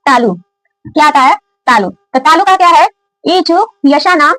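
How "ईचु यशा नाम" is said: slow recitation. Shown as a demonstration. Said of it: "दूसरा सूत्र है हमारा".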